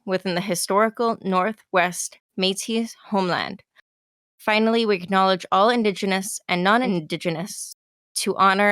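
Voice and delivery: measured, slightly hushed formal read; formal statement read. Acted. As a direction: read it like an official acknowledgement. Reads land acknowledgement.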